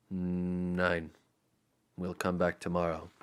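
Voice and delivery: soft, grim German leader; a touch of grim resolve. Acted. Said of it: "said grimly".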